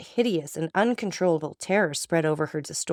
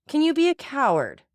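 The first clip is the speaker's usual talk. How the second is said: growing agitation; 9 semitones higher than usual. A narrator's reading. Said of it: "with increasing excitement".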